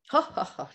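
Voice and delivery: mock laugh in spelled-out ha-ha-has; imitated hilarious laughter. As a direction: act out a client laughing it off. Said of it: "he started just hilariously laughing".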